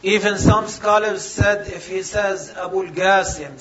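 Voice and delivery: ordinary delivery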